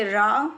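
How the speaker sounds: रा cut off with a glottal catch; careful model of रा with hamza; set-apart hamza sound. Shown as a demonstration. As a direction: stop the throat at the end of रा. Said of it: "थोड़ा सा अलग से sound करके".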